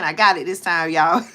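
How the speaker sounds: triumphant, giggling at her win; pleased with herself, laughing. Real, not acted. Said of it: "I had to laugh at myself".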